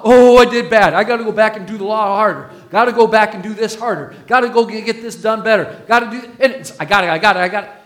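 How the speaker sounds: fast, fretful self-talk of a rule follower; mock anxious law-keeper. Preacher mocking law-followers, fast and fretful. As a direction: rattle off the gottas like a worried striver. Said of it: "people that are trying to follow the law".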